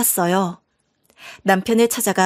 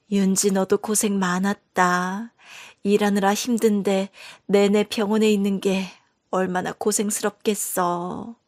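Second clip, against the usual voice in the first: weak mother fussing over her daughter after surgery; tired mother; 4 dB quieter than usual. Acted.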